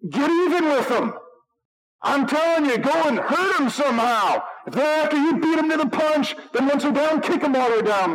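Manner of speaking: sarcastic fake Jesus. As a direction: sell the absurd fake command with irony. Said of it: "Words of Christ right there. No".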